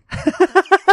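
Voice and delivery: high-pitched giggling laugh. Real, not acted. Laughing about the weird condoms, high giggle.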